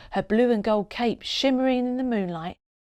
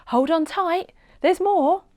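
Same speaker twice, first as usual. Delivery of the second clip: higher, teasing promise; playful superhero; 9 semitones higher, 5 dB louder than usual. A narrator's reading. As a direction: tease her with the next surprise. Polly teasing during flight.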